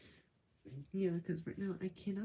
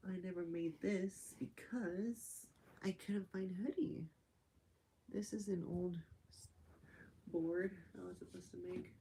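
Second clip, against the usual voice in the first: soft whisper; 7 dB quieter than usual. Real, not acted. Mostly whispering.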